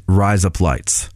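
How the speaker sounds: slow, mild attempt at an Australian accent. Shown as a demonstration. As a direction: say it slowly with a hint of Australian. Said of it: "razor blades in an Australian accent".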